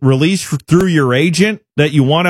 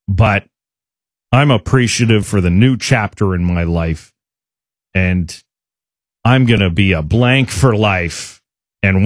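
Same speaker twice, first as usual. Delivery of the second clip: lightly mocked player at a news conference, pitched lower; lower, halting imitation of a stock player speech; Connor Hellebuyck; 5 semitones lower than usual. Host imagines the player greeting his new team, lightly mocking imitation. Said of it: "where he'll probably say".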